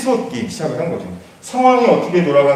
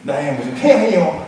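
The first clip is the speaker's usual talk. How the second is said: mock flattery. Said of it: "제가 그런 걸 잘 못해가지고".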